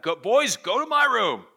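put-on mother ordering the boys off; stern mom yelling. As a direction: bark it like an angry mother. Mom sending boys to room.

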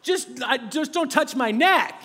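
slow, nervous mock plea to the mouse; timid plea. Dad creeping up on a mouse, mock pleading. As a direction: plead with the mouse, half-joking. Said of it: "just going".

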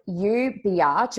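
"biatch" said in two syllables, bee-atch; drawn-out biatch. Retold or imitated. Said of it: "It wasn't bitch. It was you".

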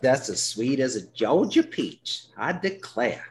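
hammed-up Georgia belle, slow and sweet; Georgia accent. Host teasing Georgia listeners in a mock Southern accent. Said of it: "that's my Georgia accent".

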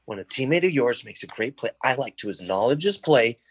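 a lightly voiced, mock-solemn lecture; dramatic Thad Castle. Thad lecturing the backup to his face, lightly dramatic. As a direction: lecture him in mock earnest. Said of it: "all dramatic, all Alan Richardson, Thad Castle".

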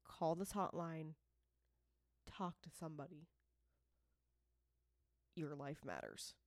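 serious, sincere. Real, not acted. Host urging struggling listeners to call the hotline, serious and sincere. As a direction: plead gently and in earnest. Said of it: "This is a serious moment".

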